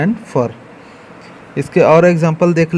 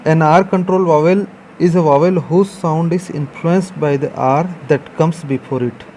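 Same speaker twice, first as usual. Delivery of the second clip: slow dictation read; much slower than usual. Shown as a demonstration. Teacher reading a definition aloud to the class, very slowly. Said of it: "teacher reads definition slowly".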